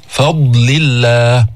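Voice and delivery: فضل الله with the ضاد drawn out from the tongue's edge; slow careful dad. Shown as a demonstration. Teacher models فضل الله for students, slowly. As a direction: dwell on the ض in فضل.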